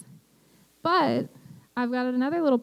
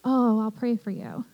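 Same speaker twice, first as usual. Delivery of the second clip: casual brush-off. Retold or imitated. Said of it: "the kind of person that says casually".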